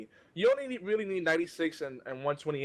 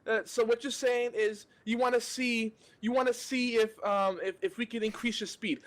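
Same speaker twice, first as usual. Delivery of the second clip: higher, confused agent stumbling through a confirmation; imitating support agent; 6 semitones higher than usual. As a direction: mimic the call-centre guy fumbling the script. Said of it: "if I do the voice".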